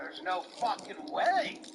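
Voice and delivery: unvoiced whisper of the furious line. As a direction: hiss the protest under your breath. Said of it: "says Topper".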